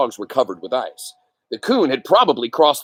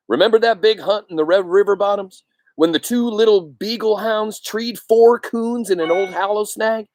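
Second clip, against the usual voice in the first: lightly voiced excited hunter, pitched up; a hunter marvelling at the den tree; 8 semitones higher than usual. Hunter shows the others the den tree, lightly voiced excited.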